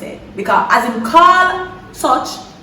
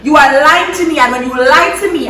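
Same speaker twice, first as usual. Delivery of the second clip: stern father. Retold or imitated. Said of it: "the big grown man say".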